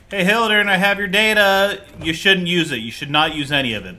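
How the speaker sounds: loud, high call easing down; mock urgent warning. Player warning scientist not to use data, mock urgent call.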